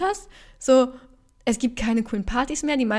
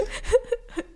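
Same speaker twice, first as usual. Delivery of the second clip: teary laugh; 14 semitones higher than usual. Real, not acted. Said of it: "ich werd sentimental".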